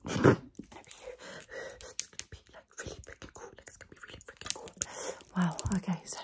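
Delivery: breathy close-mic ASMR whisper, unvoiced throughout. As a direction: whisper everything intimately into the mic. Whispers ASMR sponsor video.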